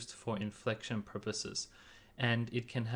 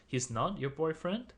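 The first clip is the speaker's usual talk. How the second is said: put-on "boyfriend" rising higher in disbelief; 怀疑地追问; doubtful question; 5 semitones higher than usual. Shown as a demonstration. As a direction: ask it like you can't believe it. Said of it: "expressing surprise or doubt".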